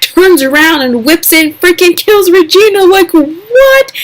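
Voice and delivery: a fan stunned by a twist; stunned disbelief. Real, not acted. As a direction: blurt it out in disbelief. Shocked recap of a killing.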